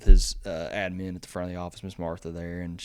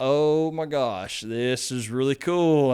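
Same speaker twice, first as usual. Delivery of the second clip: retold starstruck excitement; 4 semitones higher, 5 dB louder than usual. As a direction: relive trying not to freak out. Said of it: "trying not to freak out".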